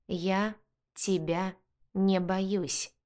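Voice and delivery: slow, each word of "Я тебя не боюсь" hit separately; a guard hissing back that he is not afraid, every word weighted; every word stressed. A narrator's reading. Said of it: "выделяя каждое слово".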